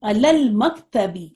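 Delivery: علن نافذتی drawn out very slowly; slow model phrase. Shown as a demonstration. Teacher giving the class a new phrase, slowly. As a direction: lay out each syllable slowly. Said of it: "اسی طرح".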